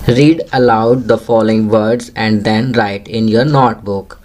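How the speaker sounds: very slow, deliberate classroom reading; teacher's slow read-aloud; slow instruction reading. Shown as a demonstration. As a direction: read each English word slowly for young learners. Teacher reads English instruction.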